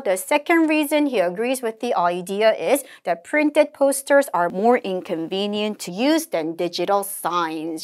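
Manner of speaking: slow, measured English recitation; model read-aloud. Shown as a demonstration. Teacher models the conversation summary, slow deliberate reading. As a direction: read it out slowly, phrase by phrase.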